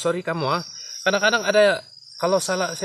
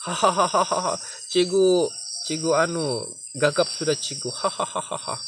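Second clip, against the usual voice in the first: mock schoolkid teasing laugh; kids laughing; slower than usual. Imitating pupils teasing the stuttering teacher, laughing. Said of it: "Budak-budak pun berhabis ketawa nih".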